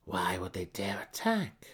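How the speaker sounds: hushed whisper, half to herself; wondering aloud. Acted. Malice wondering to her daughters, whispered. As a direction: breathe the question out like a secret. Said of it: "Malice wondered aloud".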